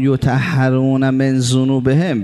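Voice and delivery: drawn-out, measured chanting of the quote; slow devotional recitation; slow Arabic recitation. Real, not acted. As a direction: intone the Arabic slowly and reverently. Quoting Arabic hadith again.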